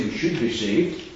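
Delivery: weight on "should", as the rejected wording; contrastive stress on should. Shown as a demonstration. Preacher rejecting a weaker wording, stress on "should". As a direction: pick out "should" to be contrasted with must. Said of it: "notice he didn't say".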